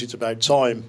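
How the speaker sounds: put-on a light Brummie accent on the line. Quoting the late father in a light Brummie accent. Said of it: "in a Brummie accent".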